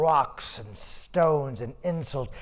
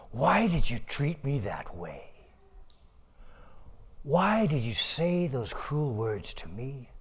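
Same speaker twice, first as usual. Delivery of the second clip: sorrowful ox; 3 semitones lower than usual. Acted. Ox answers his master sorrowfully.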